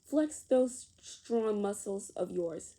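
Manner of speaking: put-on rally the kids to flex, like a coach; teacher's cheer. A narrator's reading. Teacher urging children to flex muscles, loud and cheering. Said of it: "said Miss Mallory".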